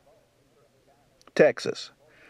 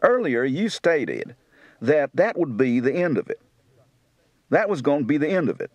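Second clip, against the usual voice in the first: Kentucky accent. Shown as a demonstration.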